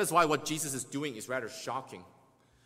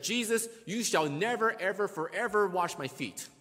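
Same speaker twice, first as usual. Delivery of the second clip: "never, ever, forever" hit higher and louder; emphatic refusal; 6 semitones higher, 4 dB louder than usual. Retold or imitated. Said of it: "Peter is saying with emphasis".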